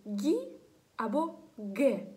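"гі" and "ге" with a firm hard g. Shown as a demonstration. Teacher showing what the silent u does, hard g. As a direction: punch out "гі", "ге" with g, no u sound. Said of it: "твердою".

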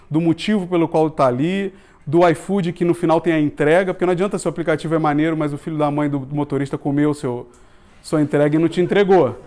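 ordinary delivery

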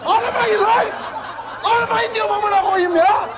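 building from sharp anger to a high, ragged scream; yelling at a bank caller who keeps ringing about a loan; screaming at telemarketer. Acted. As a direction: lose it completely on the caller.

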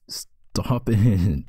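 whispered through a laugh, breath only. Acted. Girlfriend telling her distracting partner to stop, in a laughing whisper. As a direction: giggle it out under your breath.

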